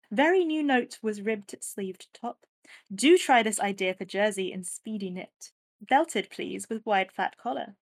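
lightly posh 1930s English lady. Retold or imitated. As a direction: read it like a posh society lady. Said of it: "I'm gonna try and put on a posh voice".

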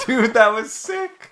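hyped laughing bro praise; slow, laughing, stoked; frat bro. Real, not acted. Hyped praise among gamer friends.

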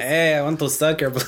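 vampire voice. Pretend. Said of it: "a Mexican vampire".

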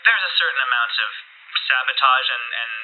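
brisk, formal commander; curt commanding Amelia. Acted. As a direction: press him like a stern race official. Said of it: "she says".

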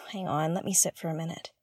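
quick breathy whisper to herself; hurried unvoiced aside, half to herself; whispered aside while sitting down. Real, not acted. Pauses mid-thought to sit down.

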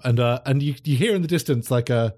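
ordinary talk

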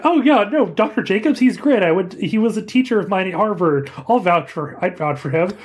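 eager, breezy doctor voice; lightly voiced eager doctor; Franklin voice. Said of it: "Franklin says".

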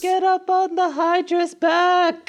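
high loud heroic shout; rally like an anime hero; cartoon battle cry.

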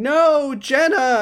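high, loud mock scream of a name; retold scream. Character in a clip screaming at Jenna, high mock scream. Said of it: "of a character screaming".

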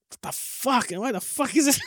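high-pitched imitation of frustrated swearing; mock exasperated cursing. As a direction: curse at a stubborn computer, playfully hammed up. Imitating own cursing while coding.

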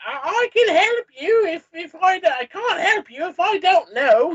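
high, stammering plea; high-voiced, halting offer of help; faltering attempt. A narrator's reading. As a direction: try to reason, stumbling over the words. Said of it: "you try".

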